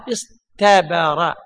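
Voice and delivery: اصطبر stretched slowly with a clear ط; slow teaching pronunciation. Shown as a demonstration. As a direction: drag out اصطبر so the طاء stands out. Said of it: "أصل الطاء هذه تاء،". (نطق اصطبر ببطء مع إبراز الطاء)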